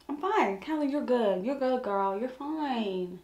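gentle self pep talk; self-soothing. Real, not acted. Talks herself down after getting worked up.

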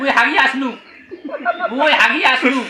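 crude Rangpur phrasing through laughter; Rangpur dialect. Shown as a demonstration. Answering the bathroom question in Rangpur dialect. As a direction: say it bluntly, village style, laughing. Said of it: "এটা মোর আঞ্চলিক ভাষায়".

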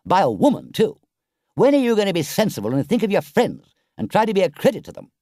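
earnest scolding, building in pitch; grave reproach. A narrator's reading. Rat reproaches Toad for making an ass of himself, grave then pleading. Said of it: "the more grave and silent the rat became".

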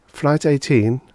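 blank robot voice. Acted. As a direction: echo it emptily, mechanical. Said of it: "she said blankly".

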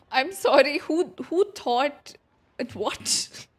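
indignant outburst. Real, not acted. Streamer reacts to game line.

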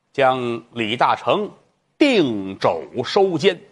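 slow, drawn-out court sentence; lightly voiced magistrate. Magistrate orders the prisoner jailed, slow and formal. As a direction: pronounce the sentence slowly from the bench.

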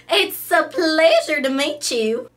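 loud, high Southern belle gushing over darling; a fussy Southern belle who flatters everyone; big, sweet Southern charm; Rhonda Lou. Acted. Rhonda Lou greets the host.

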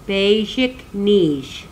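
basic niche drawn out slowly, falling at the end; slow teaching pronunciation. Shown as a demonstration. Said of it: "just how to say fish for children".

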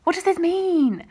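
loud, high exclamation of real bewilderment; baffled outburst. Real, not acted. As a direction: cry it out, desperate for an answer. Repeats baffled question, escalating.

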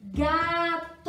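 loud, high, drawn-out exclamation; excited answer. Shown as a demonstration. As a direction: call it out like the winning answer. Calls out the answer word. (resposta animada, alta e esticada)

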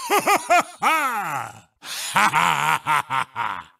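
mocking laugh. Mocking a beaten rival.

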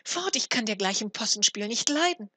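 loud, high angry dismissal; angry cry. A narrator's reading. Mother chases off the supposed dwarf, angry cry. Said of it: "rief sie".

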